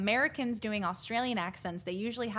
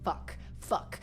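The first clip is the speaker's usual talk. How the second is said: whispered curse; 3 semitones lower, 5 dB quieter than usual. Real, not acted. Frustrated muttering at a loss.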